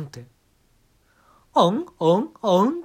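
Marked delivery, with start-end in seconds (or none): 1.5-2.8 loud, higher hammed-up moans; mock moaning. Comedian moaning into the mic over the song, hammed-up moans. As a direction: moan over the chorus. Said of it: "喘ぎ出すわけなんですよ".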